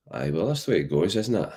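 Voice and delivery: a hint of Scottish with a broad "Aye" up front; Scottish accent. Shown as a demonstration. Streamer in a silly hat trying his Scottish accent, lightly put-on. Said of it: "I should be doing my Scottish accent".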